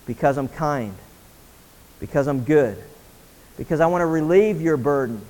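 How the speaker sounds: low, gentle answer with pauses; tender reassurance. Acted. God's tender answer to the question.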